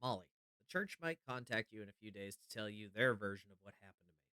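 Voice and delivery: earnest, hushed letter reading. Acted. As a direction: read the note like a confession. Reads a note from John aloud.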